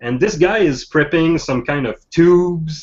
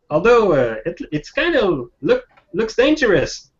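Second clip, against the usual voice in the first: lightly voiced high-pitched kid; a hint of a doubtful teenager; teenage kid; 7 semitones higher than usual. Curious teen doubting the old man's gear, lightly voiced kid. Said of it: "So the kid is like".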